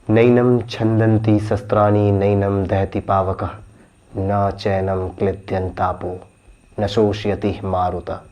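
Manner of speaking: slow, measured Sanskrit verse; scripture recitation. Acted. Suspect quoting the Gita to police, solemn recitation. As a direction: recite each phrase slowly, sinking in pitch. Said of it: "Gita में कहा गया है ना".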